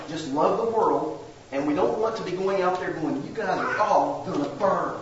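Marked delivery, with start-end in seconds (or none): 3.3-5.0 mock harsh condemnation, a touch louder; preacher mimics a harsh street condemnation; harsh gloating. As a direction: sneer it at the crowd, mildly hammed-up. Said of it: "with that kind of harsh, mean-spirited".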